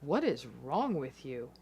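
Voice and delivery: low, slow, coldly dismissive; a narcissist calmly brushing off the partner; calm contempt. Acted. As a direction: look down on them as you ask. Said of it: "calmly and perhaps even contemptuously say to you".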